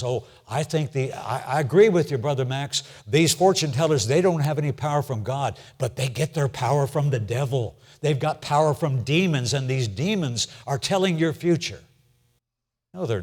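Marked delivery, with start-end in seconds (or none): 0.0-11.8 a mildly voiced believer, pitched a bit up; half-playing a church member who pushes back; imagined objector. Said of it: "Someone says".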